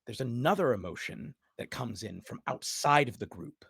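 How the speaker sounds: measured, dramatic narration with long pauses; low, weighty phrase endings; game master's scene setting. Acted. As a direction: let each image hang before the next. Game master sets a vision scene.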